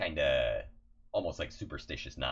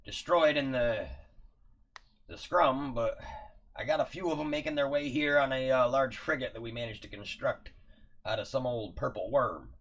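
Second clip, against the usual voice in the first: stiff barking toy soldier; 8 semitones higher, 6 dB louder than usual. Acted. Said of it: "He says".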